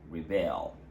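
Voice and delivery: reBEL with a falling finish; stress on second syllable. Shown as a demonstration. Teacher repeating the verb, stress on BEL in rebel. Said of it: "the stress is on the second syllable".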